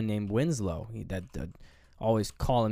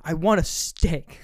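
loud, high, drawn-out outburst; mock breakdown; 6 semitones higher, 7 dB louder than usual. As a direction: wail it slowly, acting out a drunken meltdown. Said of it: "he kinda just breaks down".

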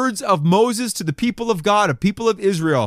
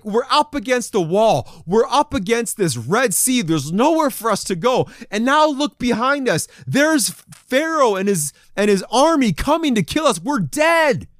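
mild mock panic, pitched higher; acted freaking out; 5 semitones higher than usual. Preacher voices trapped Israelites seeing Pharaoh's army, mock panic. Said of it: "They're freaking out".

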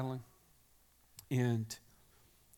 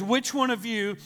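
louder, raised demand of a furious king; 6 semitones higher, 7 dB louder than usual. Retold or imitated. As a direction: confront the captains, hunting the spy. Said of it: "the king of Syria is getting furious".

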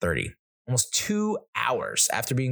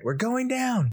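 high piercing mock yell; imitated child yell. Daughter yelling as the plane descends, high mock yell. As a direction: shriek it out like a kid at landing. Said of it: "She's yelling that".

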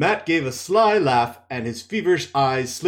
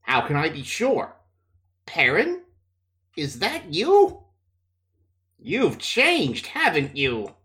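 feverish taunting; 2 semitones higher, slower than usual. Acted. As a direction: taunt like a sick man. Feverish Matt taunts Perrin.

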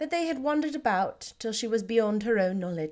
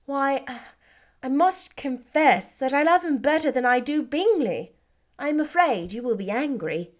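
lightly voiced, a little higher; Elizabeth, happy; 4 semitones higher, 4 dB louder than usual. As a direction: Lizzie glowing, asking approval. Elizabeth teasing confession.

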